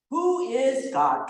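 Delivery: slow high quiz question. Shown as a demonstration. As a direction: pose it slowly like a teacher. Teacher posing catechism question.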